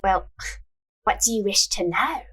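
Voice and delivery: breathy fortune teller whisper; hushed mystic asking the question. Acted. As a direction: whisper it like a secret. Fortune teller asks client.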